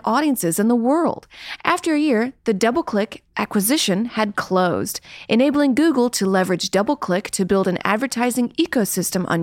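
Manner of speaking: polished corporate announcer read; corporate propaganda voice. Acted. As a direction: read it like a company press release. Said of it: "You had a good, uh, corporate propaganda voice".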